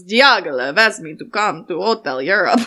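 put-on reading in an Italian accent. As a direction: read it like an Italian. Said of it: "it's gonna come out very Italian".

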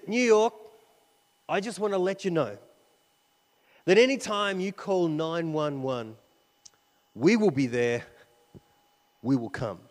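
loud, proud public promise; declaring firefighter's promise. Retold or imitated. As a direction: call it out to the whole arena. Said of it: "He says".

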